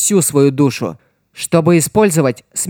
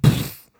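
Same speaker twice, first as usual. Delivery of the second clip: scoffing snort. A narrator's reading. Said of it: "Ома только хмыкнул".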